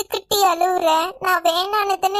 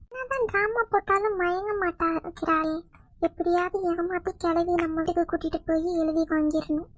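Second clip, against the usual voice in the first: softer muttered aside to herself; scheming aside; 6 dB quieter than usual. Acted. Sister-in-law plots quietly to herself about the property. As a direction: plot under your breath.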